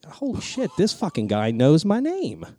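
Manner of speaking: high, slow amazed gasp; starstruck. Retold or imitated. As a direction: imitate yourself being thrilled. Retelling his own starstruck thought.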